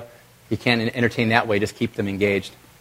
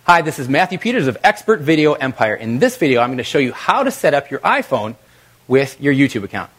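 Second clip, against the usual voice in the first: brighter, punchier read with energy; energetic intro. Shown as a demonstration. Presenter showing an energetic video opening, upbeat. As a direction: sell it, lift the energy. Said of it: "There's energy".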